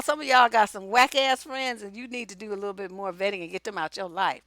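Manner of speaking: ordinary talk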